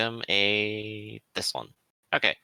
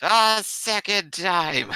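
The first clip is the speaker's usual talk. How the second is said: deep voice; 6 semitones higher, much slower than usual. Acted. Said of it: "a deep voice say".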